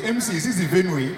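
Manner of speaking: mock mispronunciation of "venue"; imitated slip on the word "venue"; mispronounced venue. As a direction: say "venue" the wrong way, imitating her. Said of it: "you mean venue?".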